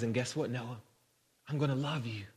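soft fatherly promise; gentle, hushed affection; tender reassurance. Retold or imitated. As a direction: quietly reassure a small son. Father reassures his son.

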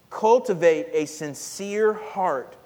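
cultivate stressed, slow and loud; emphatic slow statement. Shown as a demonstration. Preacher announcing the second charge, slow and emphatic. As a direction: spell out the point weightily. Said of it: "The second one".

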